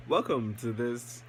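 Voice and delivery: slow, mock intro greeting; lightly put-on, drawn-out vlog welcome; fake-sounding intro welcome. Vlogger imitating his awkward attempts at an intro, fake-sounding welcome. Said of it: "Did that sound fake".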